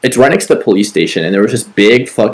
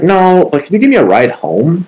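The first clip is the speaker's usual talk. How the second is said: lady asking for a ride; 9 semitones higher than usual. Retold or imitated. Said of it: "She's like".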